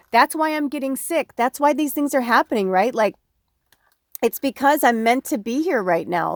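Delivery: high, loud, fast emotional outpouring. Real, not acted. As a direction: speak through rising real tears. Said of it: "I'm starting to get emotional".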